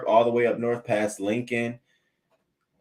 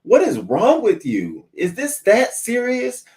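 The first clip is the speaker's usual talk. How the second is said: loud, slow outraged yelling; going off; 14 semitones higher, 6 dB louder, slower than usual. Pretend. Big sister yelling at mom over the shower, furious. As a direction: let him have it, furious. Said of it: "I would be going off".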